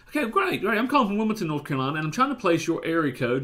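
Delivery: upbeat friendly. Retold or imitated. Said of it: "I said".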